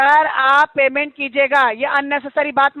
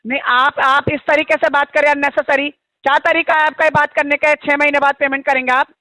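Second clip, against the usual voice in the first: indignant, raised-voice protest; real heated scolding. Real, not acted. Agent objects to customer's way of talking, heated and indignant. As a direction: scold the caller for how he talks. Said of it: "गर्मी में मर जाएगा चिल्ला के, थोड़ा कम चिल्ला ले".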